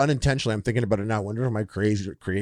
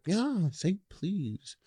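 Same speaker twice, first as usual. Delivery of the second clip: put-on bratty kid; 9 semitones higher, 8 dB quieter, much slower than usual. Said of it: "I'm like".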